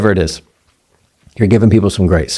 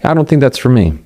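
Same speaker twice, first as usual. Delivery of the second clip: calm after a breath; 3 semitones higher than usual. Shown as a demonstration. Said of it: "Which one sounds more powerful".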